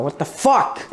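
real burst of frustration; freaking out. Real, not acted. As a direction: let the curse jump up in pitch. Freaking out after bad decision.

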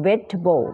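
"vegetable" with no "jet" sound; three-syllable pronunciation. Shown as a demonstration. Teacher showing learners the word for vegetables, three-syllable pronunciation. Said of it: "ออกเสียงเป็น vegetable นะ ไม่มีคำว่า jet".

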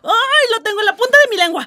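can't get the answer out, pushing hard; tip-of-the-tongue frenzy, loud and quick; excited. Acted. Guessing game, eager excited guess.

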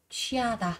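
취하다 with a puff of air on the first sound; aspirated consonant. Shown as a demonstration. Teacher modelling aspiration for learners, breathy-released ch in 취하다. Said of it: "bật hơi ra".

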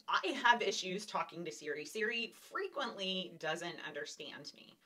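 ordinary talk

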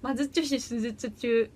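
slow, careful tongue twister; deliberate test of a tricky phrase; tongue-twister attempt. Shown as a demonstration. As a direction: take the twister slowly, syllable by syllable. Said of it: "これいける。".

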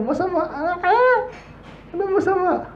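high, mocking laugh at the word masama. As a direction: scoff like locals laughing at a naive foreigner. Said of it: "Tatawanan ka dun". (mapanuyang tawa sa mataas na boses)

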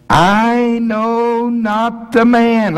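very high, slow, strained protest; cursing denial. Pretend. Peter cursing as he denies Jesus, high and strained. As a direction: force the denial out. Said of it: "he's cursing and swearing".

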